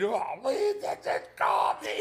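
high-pitched wailing, words breaking into sobs; hammed-up tearful shriek; mock crying. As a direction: imitate a drunk, hysterical crying phone call. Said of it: "the crying".

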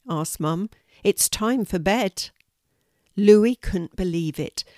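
gentle bedtime storytelling read; story narration. A narrator's reading. Grandma reading a bedtime story to her grandchildren, gently.

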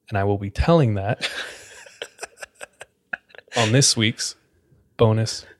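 gülerek. Real, not acted. Laughs while teasing bonus story.

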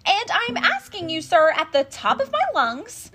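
loud, high-pitched indignant demand; upset shouting. A narrator's reading. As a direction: shout it at the top of your lungs. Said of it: "he was very upset as he shouted and puffed".

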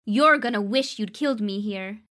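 loud, high-pitched taunt; yelling threat. Acted. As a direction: yell it defiantly at the guards. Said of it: "she yelled".

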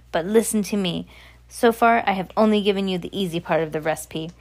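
put-on lightly accented, emphatic witch; lecturing witch. Voices the Grand High Witch.

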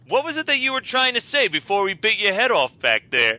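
lightly put-on New Jersey accent. Cop questioning Ronnie, imitated New Jersey accent. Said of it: "the thick New Jersey accents".

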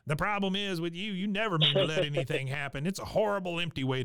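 a lightly voiced cranky old woman; pissed-off old lady. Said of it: "perpetually pissed off".

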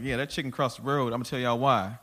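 loose, conversational joke setup; fluid joke delivery. Shown as a demonstration. Comic showing how he tells jokes now, fluid delivery. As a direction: toss the joke out freely, like casual storytelling. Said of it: "it's a lot more fluid now".

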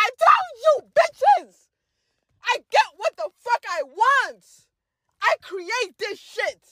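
high, loud gloating yell; triumphant gloat. Retold or imitated. Gloating at classmates after picking Ganesha, loud yell. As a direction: slam it down and crow.

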